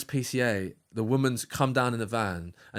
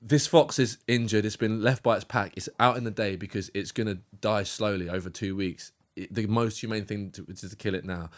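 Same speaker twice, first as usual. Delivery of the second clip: matter-of-fact RSPCA woman; 4 semitones lower, 4 dB quieter than usual. Retold or imitated. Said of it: "She went".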